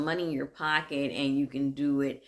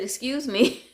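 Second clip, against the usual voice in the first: raised, more insistent "Excuse me"; second try, pitch up and louder; 9 semitones higher, 6 dB louder than usual. Retold or imitated. To a guy ignoring her, a raised excuse me. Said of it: "So I said".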